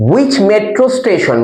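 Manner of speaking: slow, deliberate question read; careful classroom read; slow reading aloud. Shown as a demonstration. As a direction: stretch each word for the pupils. Teacher rereads question slowly.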